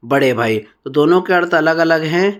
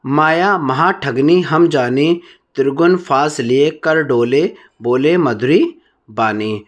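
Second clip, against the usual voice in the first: slow, measured recital of poetry; verse recitation; 2 semitones lower, slower than usual. Shown as a demonstration. Teacher reads a verse example to students, slow recitation. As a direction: recite the verse slowly, phrase by phrase.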